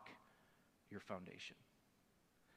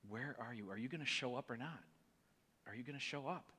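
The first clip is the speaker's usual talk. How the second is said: desperate prayer; 9 dB quieter than usual. Retold or imitated. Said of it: "just crying out to God and being like".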